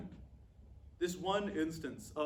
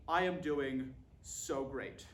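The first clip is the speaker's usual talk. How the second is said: fake cheer; 4 semitones lower, much slower than usual. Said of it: "I usually say".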